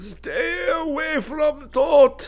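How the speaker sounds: very high, very slow, drawn-out hoarse croak. Narrator reads Professor Curzel speaking to the boys, croaked. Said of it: "He croaked at the boys".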